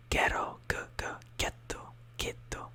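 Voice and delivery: ghetto with a hard g, GHET-to; Italian ghetto. Shown as a demonstration. Teacher modelling a hard g in ghetto. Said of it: "you say".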